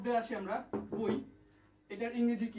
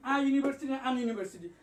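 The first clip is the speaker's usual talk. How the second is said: louder quiz question; 2 semitones higher, 4 dB louder than usual. Real, not acted. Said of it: "একটু comment করেন".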